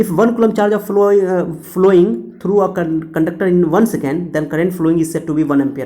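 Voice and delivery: very slow word-by-word dictation. Shown as a demonstration. Teacher dictates the ampere definition to students, very slow. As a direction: dictate slowly so they can write it down. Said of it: "मैंने definition लिख दिया".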